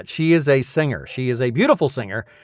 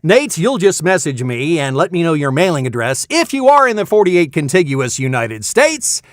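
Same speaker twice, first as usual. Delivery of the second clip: raised, emphatic prize terms; game-show prize announcer; 5 semitones higher, 5 dB louder than usual. Pretend. Announcer tells winner how to claim mug, announcer style. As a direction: read the winner the rules with showy stretched endings.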